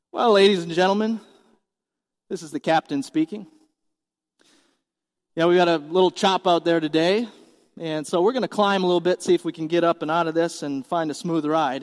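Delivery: lightly voiced airline pilot on the intercom; steady, routine, reassuring cabin announcement; calm, measured captain. Captain reassuring passengers in turbulence, calm and measured. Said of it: "he says in a calm and measured voice".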